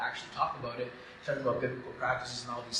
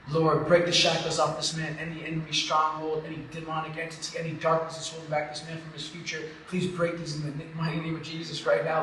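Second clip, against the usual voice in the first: impassioned deliverance prayer, retold; imitated old pastor preaching; 3 semitones higher, 4 dB louder than usual. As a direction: pray over him like a seasoned preacher. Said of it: "he starts preaching with the weight of an eighty-year-old pastor".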